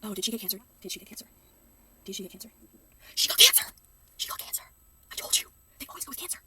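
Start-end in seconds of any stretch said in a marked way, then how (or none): 3.1-3.6 loud, forceful stage whisper; shocked stage whisper. Real, not acted. Shocked reaction to video plot. 4.2-4.6 just breathe it, stunned; whisper. Real, not acted. Repeats the news quietly. 5.1-5.5 hissed, triumphant stage whisper. Real, not acted. Gloating after prediction. 5.8-6.4 high, exasperated outburst. Real, not acted. Exasperated at the plot cliché.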